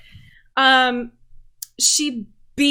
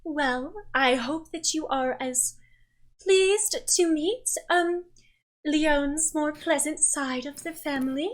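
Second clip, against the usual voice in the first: higher, mock-offended dramatic mother; a lady chiding her daughter playfully; theatrical mother; 4 semitones higher than usual. The mother speaks to guests.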